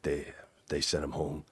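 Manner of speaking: the assistant director breaking bad news softly; reluctant quiet admission. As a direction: say it like you wish you didn't have to. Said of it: "he didn't wanna say it".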